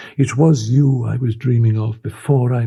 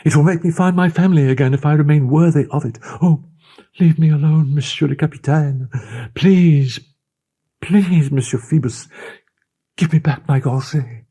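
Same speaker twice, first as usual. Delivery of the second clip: high, louder, breathless pleading; 10 semitones higher, 5 dB louder than usual. A narrator's reading. The girl begging the captain to give back her gorget, frightened. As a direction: beg him to stop, near panic.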